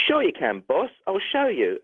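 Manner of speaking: lightly imitated Cockney man; quoting someone in a light Cockney voice; Cockney accent. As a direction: slip into a mild Cockney accent. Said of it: "with a Cockney accent".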